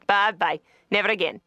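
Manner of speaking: put-on lightly done Scottish accent; bad Scottish accent. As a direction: sign off in a mock Scottish brogue. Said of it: "some really bad, you know, Scott".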